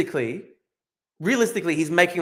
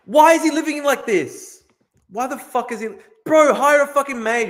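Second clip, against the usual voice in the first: outraged disbelief; 10 semitones higher, 7 dB louder than usual. Real, not acted. Outraged at dead animal news.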